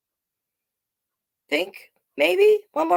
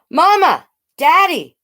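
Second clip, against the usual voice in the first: high, louder call to parents; excited shout; 11 semitones higher, 5 dB louder than usual. Acted. Girl shouting for parents after baby says her name, excited. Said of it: "I shout".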